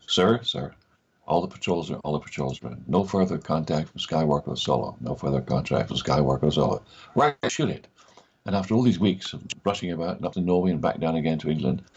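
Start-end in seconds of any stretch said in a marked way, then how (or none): 0.1-6.8 acted American officer's report; put-on American accent, reporting to a superior. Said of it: "can you do an American accent?". 7.2-7.9 high-pitched retold director's go-ahead; sudden high, decisive reply; director's snap decision.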